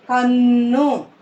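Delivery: "కన్ను" with a long held న్న; pressed double consonant. Shown as a demonstration. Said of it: "అని నొక్కి పలకాలి".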